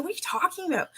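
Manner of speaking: mock the cousin's high disbelief; high incredulous cousin. Cousin asks her scared friend, high incredulous. Cousin's doubting question retold.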